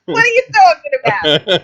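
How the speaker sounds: playful New York manager voice. Retold or imitated. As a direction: imitate a New York agent in disbelief. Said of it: "like a real New York manager".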